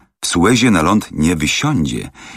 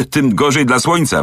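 mild exclamation; 8 semitones higher than usual. Acted. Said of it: "wykrzyknął obieży świat".

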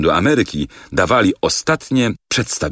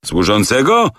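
mock yell; 5 semitones higher, 3 dB louder than usual. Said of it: "wrzasnął tamtejszy Barnum".

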